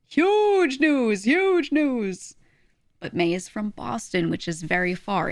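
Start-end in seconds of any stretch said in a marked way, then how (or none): 0.1-2.3 high, loud, drawn-out mock fanfare; mock big announcement. Streamer teasing chat about basic geography, mock-amazed. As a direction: announce it like absurdly huge news.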